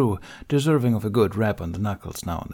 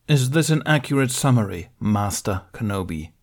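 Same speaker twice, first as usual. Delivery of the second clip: bitter spat question. Acted. Mace bitterly accusing Ben before the council. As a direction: spit the title out with contempt. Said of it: "May spat bitterly".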